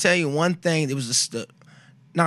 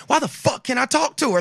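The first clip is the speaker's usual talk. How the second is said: retold angry yell; 10 semitones higher than usual. Angry retelling at doctors.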